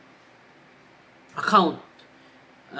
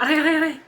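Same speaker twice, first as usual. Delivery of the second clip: much higher, louder repeated cries of pain; with feelings; 10 semitones higher, 10 dB louder, much faster than usual. Shown as a demonstration. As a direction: yelp "Aray" again and again as if it really hurts. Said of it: "Talagang sobrang sakit yun, with feelings". (paulit-ulit na "Aray" na mataas at malakas, puno ng sakit)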